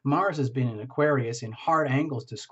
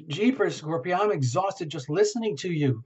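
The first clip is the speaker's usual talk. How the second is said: mock exhausted; 3 semitones higher than usual. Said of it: "Terra Illumination says".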